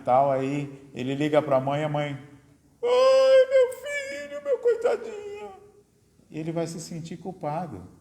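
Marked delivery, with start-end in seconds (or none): 2.8-5.3 very high, sing-song wailing sob; mock crying mother. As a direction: ham up a dramatic mother weeping on the phone. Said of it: "a mãe chora e faz drama".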